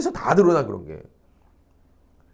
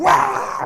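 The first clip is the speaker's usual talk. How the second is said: drawn-out mock yell of a tantrum; child's mock outburst. Teacher imitating a child told to study, mock outburst. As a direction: imitate a kid kicking up a fuss. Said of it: "애가 막 뭐 난리를 쳐요".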